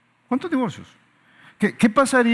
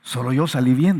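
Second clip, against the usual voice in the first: put-on griping child; 6 semitones lower than usual. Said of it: "dices tú, ¿verdad?".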